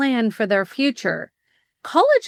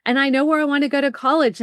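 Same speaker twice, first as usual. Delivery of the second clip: son's excited voice; 4 semitones higher, faster than usual. Retold or imitated. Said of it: "he says".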